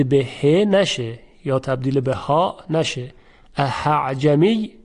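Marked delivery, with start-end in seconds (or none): 3.6-4.7 اعجمی with the second hamza turned into an h; wrong h sound. Shown as a demonstration. Teacher demonstrates the wrong Egyptian h for students. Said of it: "این غلط هست".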